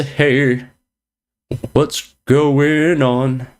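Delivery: usual speaking voice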